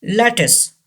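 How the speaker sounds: lattice as "LAT-iss", ending in a short i; lattice, stressed first, closing on "iss"; second T silent. Shown as a demonstration. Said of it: "U gives the sound of E".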